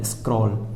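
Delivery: "स्क्रॉल" read skrol with a falling close; model pronunciation. Shown as a demonstration. Teacher modelling "स्क्रॉल" after spelling it out. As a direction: spell it then say "स्क्रॉल" cleanly. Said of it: "S C R O double L".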